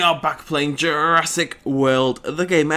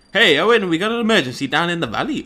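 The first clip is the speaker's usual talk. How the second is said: urgent call; 4 semitones higher, 8 dB louder than usual. Acted. Game character calling out.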